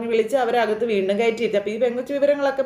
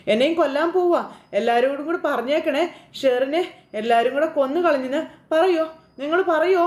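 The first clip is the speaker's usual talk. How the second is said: screaming; 3 semitones higher than usual. Retold or imitated. Sherin being dragged away, screaming at everyone. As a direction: cry out to everyone, pitch climbing. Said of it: "ഭയങ്കര ഒച്ചയ്ക്ക് കിടന്ന് അലറി വിളിക്കുകയാണ്".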